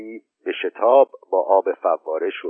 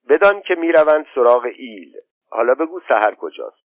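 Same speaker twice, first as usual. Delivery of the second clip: put-on a bored boy hurrying through the story; impatient boy; 3 semitones higher, 3 dB louder than usual. Khosrow to his mother, impatient to hear about his horse.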